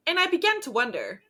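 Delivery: hammed-up reflective voice-over; Carrie Bradshaw. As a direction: muse aloud like a sitcom columnist. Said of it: "what Carrie Bradshaw would say".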